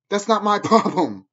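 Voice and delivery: a laugh breaking through the brush-off; laughing dismissal. Real, not acted. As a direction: scoff it away with a laugh. Laughs off critics mid-rant.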